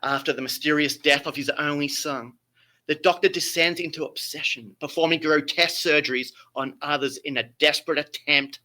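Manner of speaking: grand theatrical storytelling; Shakespearean voice. Acted. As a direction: read it like an old stage tragedy. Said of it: "I have to put my best Shakespearean voice".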